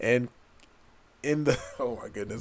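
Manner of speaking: talking through laughter. Explaining why a token is funny: laughing while talking. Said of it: "I'm laughing because it's funny".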